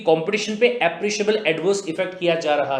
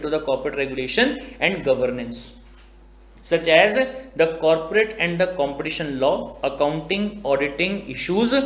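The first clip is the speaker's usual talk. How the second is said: slow, measured reading of the act text; deliberate legal dictation; much slower than usual. Acted. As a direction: read it out word by word like a statute. Reading the institute's mandate.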